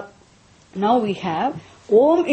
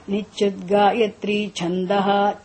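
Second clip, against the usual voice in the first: slow recitation; slower than usual. Shown as a demonstration. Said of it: "Chandas means meter".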